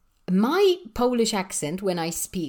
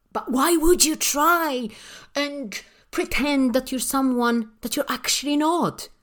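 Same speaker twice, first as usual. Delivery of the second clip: higher-pitched, baffled questioning; incredulous; 5 semitones higher than usual. Retold or imitated. Teacher answers people hiding their accent, incredulous. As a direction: challenge them in disbelief.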